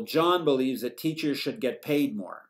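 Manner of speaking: English rhythm with beats on "John", "teachers" and "paid"; stress-timed rhythm. Shown as a demonstration. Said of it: "words are stressed at regular intervals".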